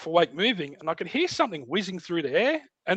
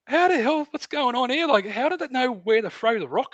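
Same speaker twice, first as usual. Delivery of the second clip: retold bewilderment; 7 semitones higher than usual. Confused after a rock hits tent.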